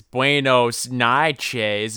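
slow, drawn-out Buenos noches in a mock Spanish accent; overdone slow Spanish greeting; slow fake Spanish. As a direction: stretch out Buenos noches slowly, hamming it. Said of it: "He says".

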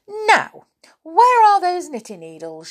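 put-on a flustered young woman asking; Sally's voice. A narrator's reading. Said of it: "she said".

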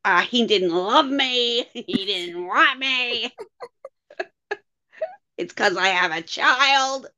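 hammed-up crying with laughs; mock sobbing Alyssa. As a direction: fake tearful whine, slowed, laughing through it. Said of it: "they cut to Alyssa".

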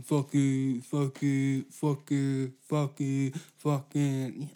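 stuck on one word, repeating it; stuck stutter. Real, not acted. Host stuck repeating a word to his listeners. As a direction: loop the word like a skipping record. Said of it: "I sound like a fucking Italian mob boss with a glitch".

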